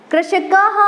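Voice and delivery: कृषकः said with a distinct final "ह" breath after the अ; visarga sounded. Shown as a demonstration. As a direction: say कृषकः fully, letting the visarga ring out as "ह". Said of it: "कृषक पढ़ के छोड़ दिया तो अशुद्ध है". (कृषकः में विसर्ग को "ह" की तरह साफ़ बोलें)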